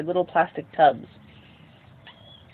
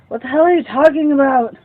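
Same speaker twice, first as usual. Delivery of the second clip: mom snaps at her son, higher and louder; angry mom; 7 semitones higher, 6 dB louder than usual. Acted. Mother snaps at her son Victor, higher and louder. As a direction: bark it at him, indignant.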